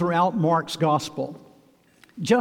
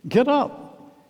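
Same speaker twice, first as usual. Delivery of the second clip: much higher, cheering urging; eager encouragement; 7 semitones higher, slower than usual. Acted. Crowd now encouraging blind Bartimaeus, eagerly. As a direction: urge him up to his feet. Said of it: "those around him change their tune".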